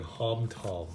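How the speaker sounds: "Hom" with an open "ah", like "hahm"; settled-on pronunciation. Shown as a demonstration. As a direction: say "Hom Tom" as "hahm tahm". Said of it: "I don't know how to pronounce this brand".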